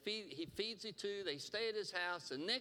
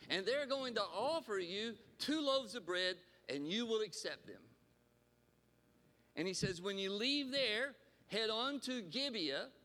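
getting excited; 3 semitones higher than usual. Real, not acted. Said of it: "Pardon me if I get just a little excited".

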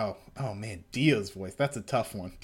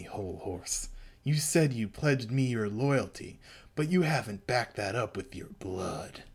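menacing Dio; 2 semitones lower than usual. Acted. Voicing Dio threatening Hol Horse.

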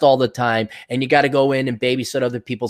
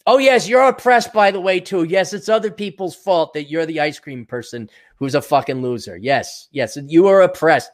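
sarcastic fake sympathy; 2 semitones higher than usual.

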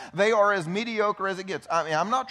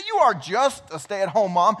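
sarcastic echo; 6 dB louder than usual. Retold or imitated. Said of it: "But yeah".

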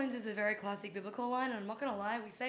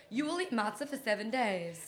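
dramatic reading; 3 dB louder, slower than usual. Pretend. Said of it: "It's my dramatic reading".

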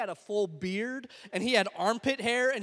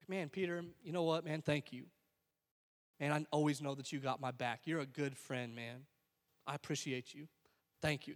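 grateful friend; 5 semitones lower, 7 dB quieter than usual. Pretend. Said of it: "you know what we would say".

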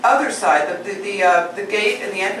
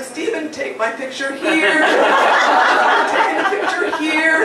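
retold calling out; 6 semitones higher than usual. Giddy storyteller asking Stephen for a picture, mock yelling. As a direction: call across a crowd without really shouting. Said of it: "I'm, like, yelling out to Stephen".

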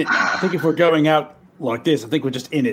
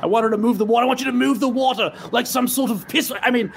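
raised, insistent coaching; excited, higher-pitched directing; urgent instruction; 6 semitones higher than usual. Acted. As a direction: urge them through it step by step. Player urgently instructs girl.

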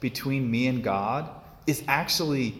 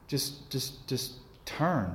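gentle whisper; 6 dB quieter, much slower than usual. Pretend. Jesus voiced gently urging.

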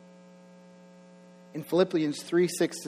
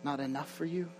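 God's voice; 9 dB quieter than usual. Retold or imitated. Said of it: "he said".

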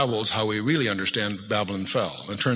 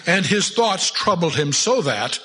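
put-on slow, solemn old-English reading; preacher relishing a King James verse; 3 semitones higher, slower than usual. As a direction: savour the King James words slowly. Reads King James aloud.

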